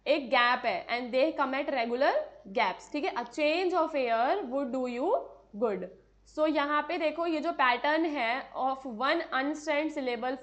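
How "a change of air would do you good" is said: slow iambic reading with change, air, do and good punched; stressed reading. Shown as a demonstration. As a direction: tap out the da-DUM beat slowly. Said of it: "इन पे stress दिया गया है".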